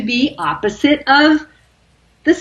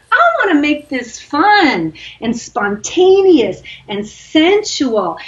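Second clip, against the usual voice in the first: slow sensual musing; 3 semitones higher, slower than usual. Retold or imitated. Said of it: "that part of you that's like".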